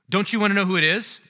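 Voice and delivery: eager wife. Retold or imitated. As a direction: coax him with the news. Eager wife pressing her husband.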